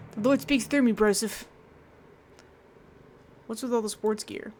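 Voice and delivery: a light surfer-bro priest voice; lightly voiced surfer bro priest; dude bro priest. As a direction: play the chill priest saying bye. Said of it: "the dude bro priest".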